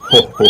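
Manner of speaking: hearty "ho, ho"; Daddy Pig laugh. A narrator's reading. Dad amused by loud singing, laughing. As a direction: chuckle in separate ho-hos. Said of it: "laughs Daddy Pig".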